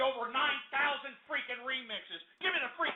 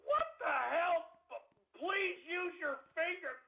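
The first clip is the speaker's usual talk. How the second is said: laughing disbelief; 4 semitones higher, slower than usual. Real, not acted.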